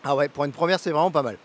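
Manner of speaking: chewing while talking; words through a mouthful of fruit; mouth full. Real, not acted. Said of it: "parler à la bouche pleine".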